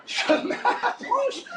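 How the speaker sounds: very slow, high creep; high, comically slow delivery; stretched-out approach. Acted. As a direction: draw every syllable out as you sneak closer. Repeats approach, creeping and drawn out.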